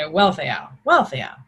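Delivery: Wealtheow blended smoothly, WEL-thay-ow; Old English pronunciation. Shown as a demonstration. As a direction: run Wealtheow together in one breath. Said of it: "If you run it together".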